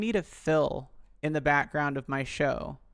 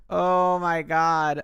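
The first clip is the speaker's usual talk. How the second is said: stretched, loud disbelief at the clip; loud, drawn-out oh my God; 3 semitones higher, 10 dB louder, much slower than usual. Real, not acted. Reacting to the funny Tom Green clip, loud and drawn out. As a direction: let it ring out slow and big.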